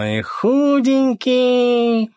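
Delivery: high, slow mocking squeak; mock him in a squeaky drawl; teasing squeak. Lyokha teasing the captain about being skinny, high and slow.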